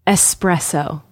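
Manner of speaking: espresso with an S sound, no X; correct pronunciation. Shown as a demonstration. Host quizzing partner on mispronounced words, correct pronunciation. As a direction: say "Espresso" with ess at the start. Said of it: "There is no X in the word".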